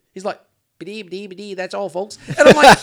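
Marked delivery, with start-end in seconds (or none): 0.8-2.2 stuttered cartoon sign-off, lightly imitated; Porky Pig. Daughter mimicking who Eckhart reminds her of, mock cartoon stutter. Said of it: "He reminds me of Porky Pig off Looney Tunes".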